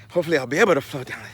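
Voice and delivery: fast, winded rush of words; out of breath. Real, not acted. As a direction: talk while out of breath. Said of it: "Man, I'm out of breath here".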